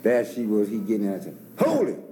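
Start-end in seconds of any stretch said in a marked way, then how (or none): 1.6-2.0 high, louder call to stop. Retold or imitated. Calling to the girl to stop the car, loud. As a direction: shout after the car.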